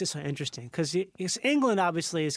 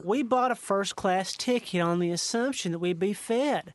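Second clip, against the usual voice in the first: gruff Southerner. Acted. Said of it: "like gruff Southerner".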